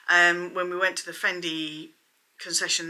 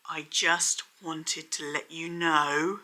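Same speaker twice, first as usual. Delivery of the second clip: bad acting; 3 semitones lower, 3 dB quieter, slower than usual. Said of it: "she basically delivered it like this".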